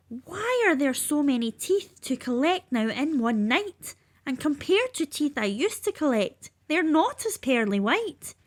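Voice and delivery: a fretful little fairy, voice lifted; Tooth Fairy voice. Acted. Tooth Fairy worried at night.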